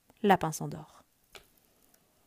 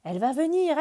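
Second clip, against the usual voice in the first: bird voice; 7 semitones higher, 7 dB louder, faster than usual. Acted. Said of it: "dit Oiseau".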